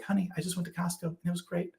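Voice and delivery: high, soft, pleased voice; good mood. Retold or imitated. Husband home from an outing greeting his wife, good mood. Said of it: "came home in such a good mood".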